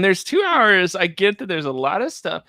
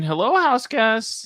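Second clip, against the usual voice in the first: host greeting; 5 semitones higher than usual. Retold or imitated. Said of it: "Angela comes in".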